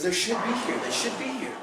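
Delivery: quoting partner. Retold or imitated. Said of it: "so he goes".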